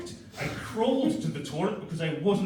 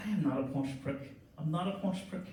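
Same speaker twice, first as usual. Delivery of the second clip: tearful denial; 6 dB quieter than usual. Retold or imitated. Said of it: "I was like".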